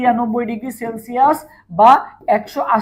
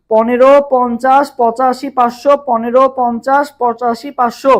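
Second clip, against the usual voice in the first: slow, louder chant, one number at a time; slow number drill; 5 dB louder, slower than usual. Shown as a demonstration. Teacher leading students through the layer heights, slow louder chant. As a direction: spell out each number for the class to repeat. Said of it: "সবাই একটু আমার সাথে সাথে comment করো তো".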